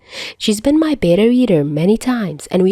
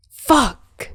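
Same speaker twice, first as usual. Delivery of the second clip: startled curse; 7 semitones higher than usual. Acted. Albatross jolts up, late.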